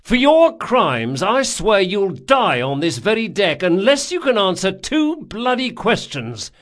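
high, loud, indignant threat; angry tirade. A narrator's reading. Captain with mimed blade threatening sailor, angry tirade. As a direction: rant theatrically with exasperated force.

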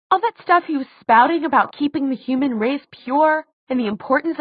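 high-pitched heated rebuttal; indignant argument. A narrator's reading. Daughter argues her father was evil, indignant. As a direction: argue back hotly, pitch staying high.

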